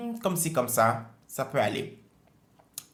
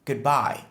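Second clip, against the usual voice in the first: Goodbye with bye stressed. Shown as a demonstration. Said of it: "L'accentuation est sur bye". (Goodbye, accent sur bye)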